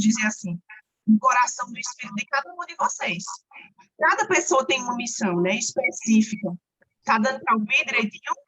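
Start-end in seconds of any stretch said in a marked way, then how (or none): 1.1-6.5 distorted robotic online audio; glitchy robot-like call audio. Real, not acted. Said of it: "Tá mais ou menos assim também".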